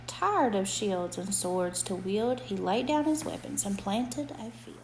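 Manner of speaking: gentle sing-song bedtime reading; reading to a child. A narrator's reading. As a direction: read it like a rhyming bedtime book. Reads a rhyming picture book aloud.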